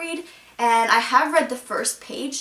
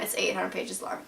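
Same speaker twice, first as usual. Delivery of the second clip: much softer, deflated repeat; deflated aside; 3 semitones lower, 8 dB quieter than usual. Real, not acted. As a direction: drop it away like a sigh of dread.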